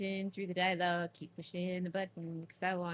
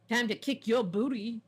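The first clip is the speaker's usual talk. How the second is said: battle taunt; 4 semitones higher, 5 dB louder than usual. Acted. Battle taunt while fighting.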